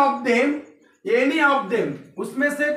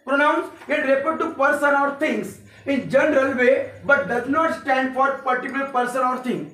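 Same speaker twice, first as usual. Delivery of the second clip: slow, steady read of the definition; slow dictation; much slower than usual. Shown as a demonstration. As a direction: dictate the whole definition for notes. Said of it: "पहले definition देता हूँ".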